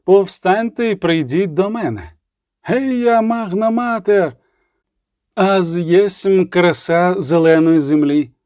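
slow, proclaiming priestess voice; a slow ritual proclamation to the crowd; solemn incantation. A narrator's reading. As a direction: summon them like a goddess speaking. Domina opens the ritual.

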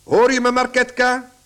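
loud, commanding call to his daughter; a father shouting for his daughter to come at once; angry shout. Acted. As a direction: bellow her name across the house. Father summons daughter angrily.

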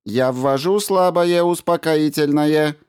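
high, measured, slow robot voice; polite robot. A narrator's reading. Robot Ram greets the injured doctor, high and slow. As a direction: greet him like a courteous machine.

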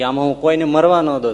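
loud, proud proclamation on મરવા; declaring loudly. Retold or imitated. Maharaj vows in the assembly that no one will die, loudly.

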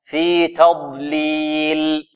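very slow "في تضليل", light ta and heavy dad. Shown as a demonstration. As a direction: draw out "تضليل" with a full emphatic ض. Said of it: "مفخمة". («تضليل» بتاء مرققة وضاد مفخمة)

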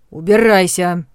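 loud furious yell; angry shout. Acted. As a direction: throw him out with a shout. Boss yells, throws pillow.

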